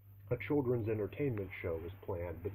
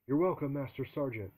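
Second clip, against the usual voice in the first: recruit bellows, higher and louder; bellowing; 6 semitones higher, 6 dB louder than usual. Acted. Recruit bellowing his thanks back at the drill sergeant. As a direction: belt it out at attention. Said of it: "I bellowed".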